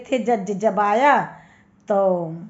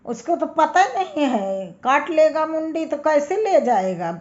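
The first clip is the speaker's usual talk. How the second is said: angry brother; 6 semitones higher than usual. Acted. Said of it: "उसको बहुत तेज गुस्सा आई".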